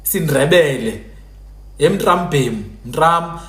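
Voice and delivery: "Sindrebele" with a marked ndr; ndrondroza pronunciation. Shown as a demonstration. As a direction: sound out "emtrambhem" with the r cluster. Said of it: "ukundrondroza is when you say".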